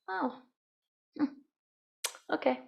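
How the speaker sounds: a quiet, noncommittal oh, hmm, okay; soft mild acknowledgment. Shown as a demonstration. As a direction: let it go with a soft murmur. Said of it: "Sometimes you can just go".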